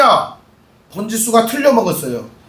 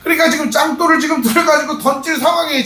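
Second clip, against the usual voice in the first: higher, crying out the danger; half-sobbed urgent shout; urgent preaching; 6 semitones higher than usual. Real, not acted. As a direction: voice cracking with urgency. Preacher describing stoning threat.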